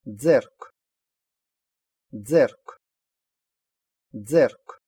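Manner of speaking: "дзерк" opening on a voiced "дз"; voiced "дз" onset. Shown as a demonstration. Teacher giving an example for learners, voiced "дз" starting "дзерк". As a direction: say "дзерк" distinctly, repeated with pauses. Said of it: "всегда произносится «дз»".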